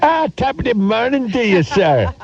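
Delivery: high hammed-up Irish brogue; mock Irish accent. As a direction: do a jokey stage Irish greeting. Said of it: "An Irish accent this time".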